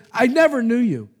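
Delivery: loud and high, NEVER hammered; booming divine rejection; stern rebuke. Acted. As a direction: thunder the judgment at them. Lord rejecting the false prophets.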